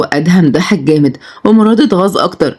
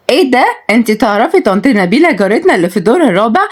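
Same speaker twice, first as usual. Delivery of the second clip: sarcastic; 4 semitones higher than usual. Acted. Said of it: "ردت وعد بسخرية".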